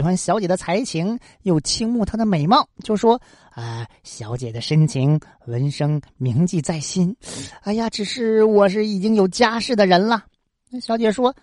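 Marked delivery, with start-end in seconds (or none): 3.5-10.2 scholar's hesitant reply. Acted. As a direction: hold back politely, weighing each word. Scholar Wensheng answers the lady.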